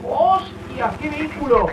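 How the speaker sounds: amazed high exclamation; surprised. Real, not acted. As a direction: blurt it out in awe. Amazed at the game vehicle.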